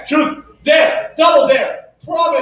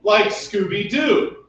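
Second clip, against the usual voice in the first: bouncy limerick lilt; much slower than usual. Pretend. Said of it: "make up a limerick".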